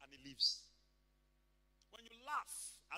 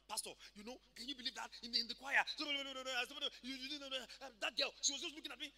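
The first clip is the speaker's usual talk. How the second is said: aggrieved complainer; 4 semitones higher than usual. Acted. Acts a member bringing a complaint.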